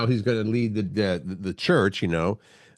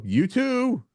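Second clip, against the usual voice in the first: reflex reply; 13 semitones higher than usual. Retold or imitated. Acting friend's reflex reply.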